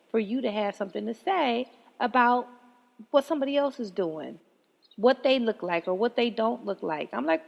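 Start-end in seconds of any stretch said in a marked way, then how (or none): none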